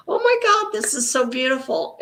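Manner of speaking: mock amazed exclamation; awed reaction. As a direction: gasp out the awe as a quoted thought. Voicing her reaction to photographs.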